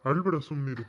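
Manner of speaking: low, gentle reassurance; consoling. Acted. An elder consoles the crying girl Rukku, low and gentle. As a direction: soothe her, low and steady.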